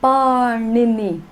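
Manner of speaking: Parnini slow with a long first vowel; careful pronunciation. Shown as a demonstration. Teacher giving the name for the class to repeat, slow and careful. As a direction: model Parnini slowly for repeating. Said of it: "this great grammarian was called".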